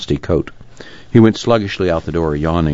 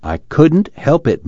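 pleading; 9 semitones higher, 3 dB louder, slower than usual. Acted.

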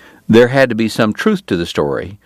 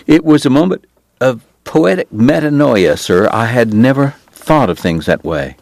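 voiced priest; 4 semitones higher than usual. Doc quoting the priest's remark.

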